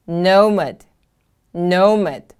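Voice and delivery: "Nomad" with a strong NO, falling away; careful teacher's "Nomad", weight on the first syllable; stress on first syllable. Shown as a demonstration. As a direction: model "Nomad" as NO-mad. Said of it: "The stress is on the first syllable".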